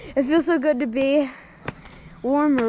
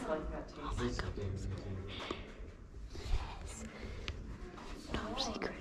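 whispering; 9 semitones lower, 16 dB quieter than usual. Real, not acted. Sneaking to a secret hiding spot.

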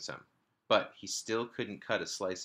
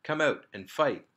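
loud playful battle call; shout; 6 semitones higher, 6 dB louder than usual. A narrator's reading. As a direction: yell it up high like a pirate. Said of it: "he shouted".

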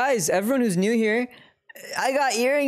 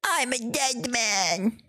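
dramatic dying; 3 semitones higher, 3 dB quieter, much slower than usual. Acted. Dramatic in-game death.

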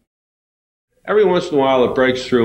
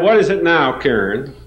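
mad teacher; 4 semitones higher than usual. Retold or imitated. Fed-up teacher to Karen raising her hand again, irritated. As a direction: let the teacher's patience run out. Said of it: "She said she was really mad".

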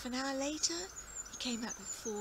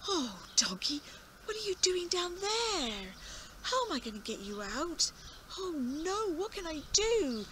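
put-on worried old farmer; 7 semitones higher, 4 dB louder than usual. Farmer distressed at the well.

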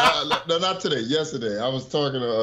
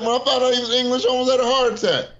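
excited; 11 semitones higher, faster than usual. Real, not acted. Shocked actor is English.

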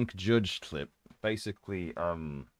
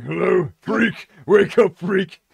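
slow, higher, louder sneering call; drunk judge call; 9 semitones higher, 9 dB louder, slower than usual. Retold or imitated. Drunk judge phoning the psyker and mocking him. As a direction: rouse him over the phone rudely. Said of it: "he's like".

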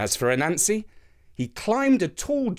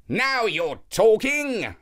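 higher, slow, satisfied; pleased; 8 semitones higher, slower than usual. A narrator's reading. Anansi pleased to hear about the food drum, eager. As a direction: say it with greedy delight. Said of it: "said Anansi".

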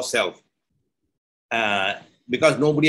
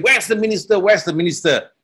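urgent call; 5 semitones higher than usual. Acted. King rushes back calling.

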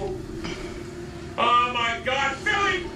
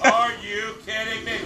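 low disbelief; 9 semitones lower, 5 dB quieter than usual. Real, not acted. Disbelief after losing.

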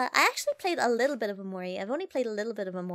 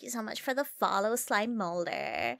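put-on Valley Girl accent. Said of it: "your points for the Valley Girl accent".

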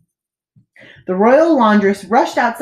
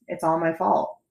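"I'm sorry" hushed and lower, much softer; soft echo; 3 semitones lower, 7 dB quieter than usual. A narrator's reading. Narrator echoing the king's apology: hushed, low "I'm sorry".

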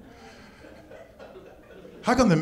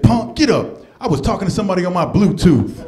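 dismissive tough guy; 3 semitones higher, 6 dB louder than usual. Retold or imitated. Big dude dismissive.

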